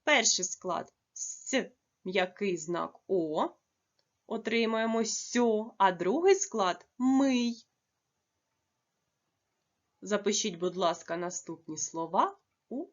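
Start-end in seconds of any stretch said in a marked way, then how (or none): 0.0-7.7 "сьо" and "мий" set apart, "мий" louder; syllable split. Shown as a demonstration. Teacher splitting "сьомий" into syllables for children. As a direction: break "сьомий" into syllables slowly with pauses. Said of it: "має також два склади".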